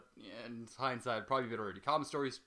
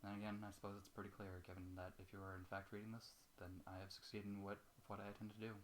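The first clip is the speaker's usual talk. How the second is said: softer, subdued reading of a farewell note; quiet letter reading; 5 semitones lower, 15 dB quieter than usual. A narrator's reading. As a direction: read it low, as the sad friend's last words.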